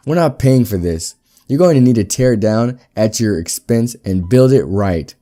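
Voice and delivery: angry blame. Acted. Company boss blaming the builder for the roof, loud and angry. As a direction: lay the blame on him, loudly.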